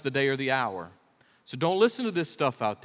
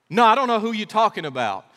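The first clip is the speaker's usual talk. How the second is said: Peter's denial; 5 semitones higher, 6 dB louder than usual. Retold or imitated. Peter denying in courtyard.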